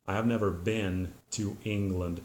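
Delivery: "been" said as "bin" with a short I; the American way; American pronunciation. Shown as a demonstration. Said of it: "United States would say".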